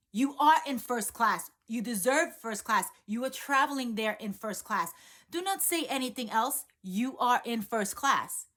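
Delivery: insisting like a mentor; firm insistence. Retold or imitated. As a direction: lean hard on every word.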